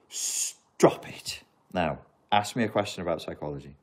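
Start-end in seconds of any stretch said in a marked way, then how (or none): 0.1-1.4 voiceless, drawn-out hiss on the S; hissed scolding. Acted. Fan telling off the writers, in a hissed reprimand.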